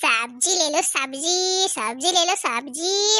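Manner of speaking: street hawker cry, lightly voiced; vendor calling out. Vegetable vendor calls customers in the market, hawker cry. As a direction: call out veggies and prices like a hawker.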